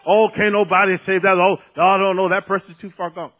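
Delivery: loud, dismissive mock objection; mock naysayers. Preacher mimics people giving up on someone, loud and dismissive. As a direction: voice the doubters loudly, writing someone off. Acted doubters writing someone off.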